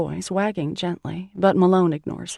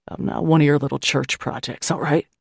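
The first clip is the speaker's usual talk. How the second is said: lower, harsh man's bark; surly man rejecting her help, lower and gruff; 3 semitones lower than usual. Acted. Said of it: "he barks".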